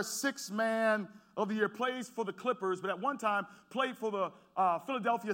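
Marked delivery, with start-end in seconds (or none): 0.0-1.7 slow, emphatic list. Shown as a demonstration. Pastor to congregation introducing Lou Williams, slow and emphatic. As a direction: lean on each word of sixth man of the year. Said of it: "repeats credentials slowly for emphasis".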